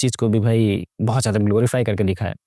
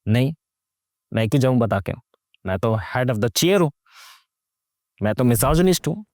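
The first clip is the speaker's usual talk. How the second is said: mock stubborn uncle; 3 semitones lower than usual. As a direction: lightly play the arrogant patriarch. Mocking the uncle's attitude.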